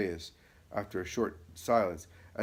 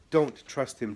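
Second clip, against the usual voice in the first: urgent plea; 5 semitones higher, 7 dB louder, slower than usual. Acted. Judas of Alphaeus pleads urgently.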